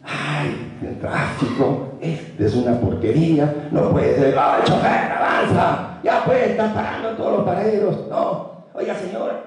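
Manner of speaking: annoyed stuck in traffic. Retold or imitated. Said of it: "Así estaba".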